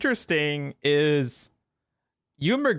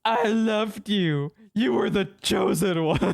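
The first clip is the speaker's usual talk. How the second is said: Broadway stage delivery; 2 semitones higher than usual. Retold or imitated. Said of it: "he delivers it like he's on the fucking stage".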